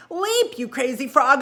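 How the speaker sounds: high, loud shouted warning; shouting. Acted. Frog warns Pin of the turtle, shouting. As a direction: yell at him to jump. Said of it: "I shouted".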